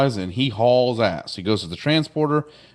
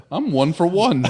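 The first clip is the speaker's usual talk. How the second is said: real laugh through the words, pitched higher; 7 semitones higher than usual. Real, not acted. Host proud of retelling the whole episode, laughing. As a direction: chuckle it out, pleased with yourself.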